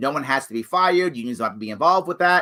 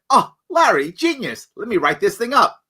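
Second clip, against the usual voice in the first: mocking Justin Amash; 7 semitones higher, 4 dB louder than usual. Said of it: "I don't think he said".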